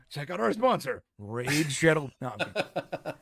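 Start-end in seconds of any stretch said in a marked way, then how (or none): 0.1-2.1 mock ad read. Joking sponsor plug.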